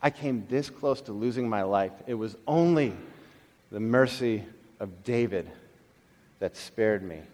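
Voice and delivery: a stunned man barely getting the words out; shaken hush. Retold or imitated. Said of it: "he's going".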